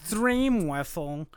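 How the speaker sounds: very slow, stretched-out troll voice; slow, drawn-out troll taunt; internet troll. Acted. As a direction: drag out each word like an online troll. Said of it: "that's my internet troll voice".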